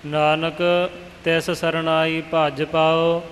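slow line with a doubled j in ਭੱਜ; deliberate model reading, ਭੱਜ with geminated j; reading demonstration. Shown as a demonstration. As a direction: read it out slowly, firm j on ਭੱਜ. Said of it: "ਪਾਠ ਪੋਲਾ ਭਜ ਨਹੀਂ ਕਰਨਾ".

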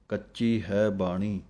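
ਕੱਚੀ said slowly with weight; slow recitation leaning on ਕੱਚੀ; stress on ਕੱਚੀ. Shown as a demonstration. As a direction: lean on ਕੱਚੀ, slow and firm. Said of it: "ਕੱਚੀ ਦੇ ਉੱਤੇ ਜ਼ੋਰ ਦੇਣਾ ਹੈ".

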